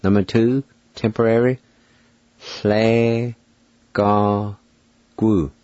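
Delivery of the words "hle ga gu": Hle ga gu split into separate syllables. Shown as a demonstration. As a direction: give each of Hle ga gu its own beat. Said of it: "pronounce these words".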